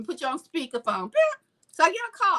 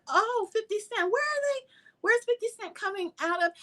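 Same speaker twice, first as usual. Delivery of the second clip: mock excitement; 9 semitones higher than usual. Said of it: "I was like".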